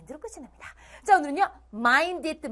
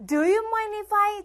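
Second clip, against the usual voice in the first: slow model line; 6 semitones higher, 4 dB louder, much slower than usual. Shown as a demonstration. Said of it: "이 표현이네요".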